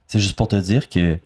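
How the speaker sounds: low, even compliment to a stranger; supposedly normal voice. Acted. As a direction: play casual, a little stiffly, pitched low. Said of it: "j'ai pris la voix la plus normale". (voix posée, plus grave)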